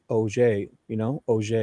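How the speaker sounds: Auger said oh-ZHAY; French-sounding Auger. Shown as a demonstration. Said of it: "So sounds French".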